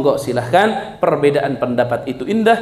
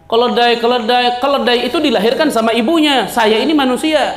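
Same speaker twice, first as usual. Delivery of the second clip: cheeky son talking back; 5 semitones higher than usual. Acted. Son talks back to the man.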